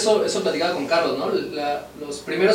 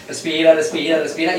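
soothing breathing cue; 3 semitones lower than usual. Shown as a demonstration. Mother calming her sobbing daughter and herself together. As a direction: breathe along with her, coaxing her down. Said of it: "Así".

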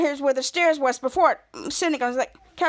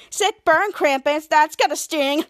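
slightly raised, pestering gadget voice; annoying high-pitched voice; slower than usual. Retold or imitated. Button gadget cheering Krampus's insult, annoying high voice. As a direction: lightly mimic an annoying squeaky gadget. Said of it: "annoying high-pitched voice".

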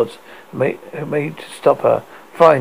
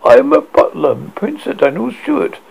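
formal butler; 9 semitones higher, 3 dB louder than usual. A narrator's reading. Butler introduces himself.

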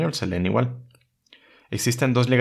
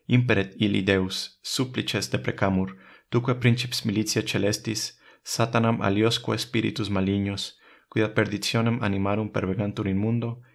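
Latin prayer. Acted. Closing the lesson by praying to Saint Michael. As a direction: pray it with reverence.

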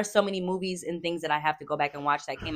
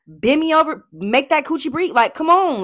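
playful excited; 8 semitones higher, 7 dB louder than usual. Pretend.

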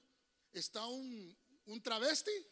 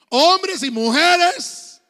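slow, drawn-out shout, much louder and higher; preaching shout; 8 semitones higher, 21 dB louder, much slower than usual. Real, not acted. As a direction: stretch every syllable to the back row. (predicando a gritos, muy lento y agudo)

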